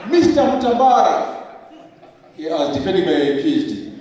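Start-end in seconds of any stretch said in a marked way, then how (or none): 0.1-1.4 "Mister" punched loud and high; stress on Mister. Retold or imitated. Examiner addressing the PhD candidate, heavy stress on Mister. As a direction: lean hard on "Mister", mimicking the examiner. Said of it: "emphasis on Mister".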